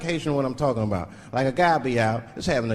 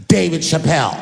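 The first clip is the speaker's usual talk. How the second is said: calling out a name; 4 semitones higher, 7 dB louder than usual. Retold or imitated. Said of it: "Just like that".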